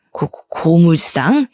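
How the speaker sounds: slow, stuttering disbelief; aghast mother-in-law. Acted. Mother-in-law hearing of the junkyard, aghast and halting. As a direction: stammer it out slowly, appalled. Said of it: "시모가 엄청나게 기겁을 하시면서 놀라시더라고요".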